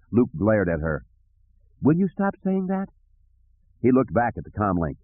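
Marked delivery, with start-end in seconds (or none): 1.8-2.9 high-pitched, irritated protest; exasperated. Acted. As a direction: cut off the nagging in exasperation. Luke glares at Leia's nagging.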